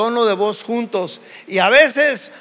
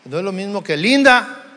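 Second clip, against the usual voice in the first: annoyed linda; faster than usual. Shown as a demonstration. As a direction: snap the name linda out when angry. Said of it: "Sí, pero diferente tono".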